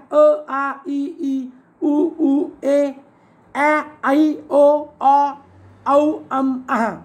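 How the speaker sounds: vowels sounded out one by one, evenly; level-toned recital of each vowel; vowel series recited. Shown as a demonstration. Teacher goes through the fourteen vowels, each sounded out separately. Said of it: "मग आता बघा".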